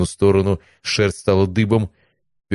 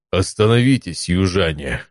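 a lightly raised barbarian call; barbarian shout. Acted. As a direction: call out to halt strangers. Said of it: "Голос Варвала был способен перекрыть вой ветра".

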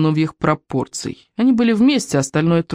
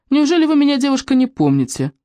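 hammed-up offended suitor; 8 semitones higher than usual. Man playing offended suitor.

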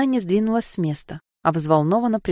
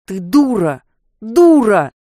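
loud angry shout, building; furious yelling; 4 semitones higher, 8 dB louder, slower than usual. Acted. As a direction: yell the insult twice, louder. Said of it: "Не бранись так!". (Серж орёт в ярости)

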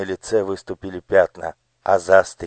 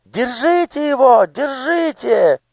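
much higher, slow shriek; piercing yell; 4 dB louder than usual. Acted. Daughter yelling from the garden, piercing shriek. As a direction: shriek after them from the garden. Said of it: "пронзительный голос Анидак".

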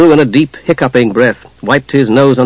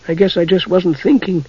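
softer, higher, gentle admission; smiling; 4 semitones higher, 5 dB quieter than usual. A narrator's reading. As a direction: own up softly with a smile.

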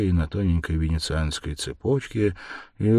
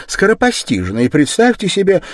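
put-on raised, worried older woman's voice; fretful mother, higher, anxious; uneasy mother; 13 semitones higher, 9 dB louder than usual. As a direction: tell the dream as a bad omen. Mother blurting news.

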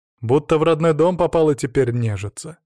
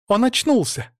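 high, louder joyful call; excited yell; 11 semitones higher, 4 dB louder, slower than usual. A narrator's reading. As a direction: shout the news to everyone. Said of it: "завопил знакомый голос".

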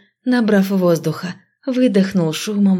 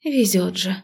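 sighing; 2 semitones higher than usual. Acted. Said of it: "вздохнула я".

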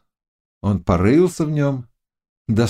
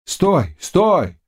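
shouting stop; 7 semitones higher than usual. A narrator's reading. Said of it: "закричали с обеих сторон".

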